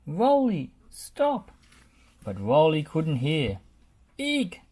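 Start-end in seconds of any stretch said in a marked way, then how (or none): 0.1-1.5 shouted warning. A narrator's reading. Bob warns Rolly. 4.2-4.6 high squeak. A narrator's reading. Muck squeaking as he dashes forward, high. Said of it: "squeaked Muck".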